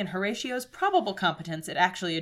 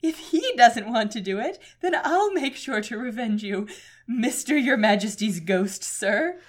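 Horatio voice; 4 dB louder, slower than usual. Acted. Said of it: "I'm doing a Horatio voice".

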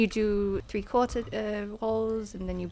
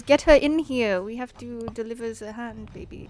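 wrestling promo; 3 dB louder than usual. Retold or imitated. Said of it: "Your acting was really committed".

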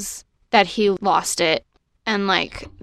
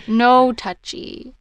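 slow possessive creature; 2 semitones higher, much slower than usual. Retold or imitated. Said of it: "a golem".

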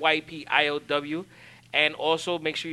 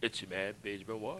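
impersonating co-host; 7 semitones lower, 13 dB quieter than usual. Pretend. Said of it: "I'll just do all your voices".

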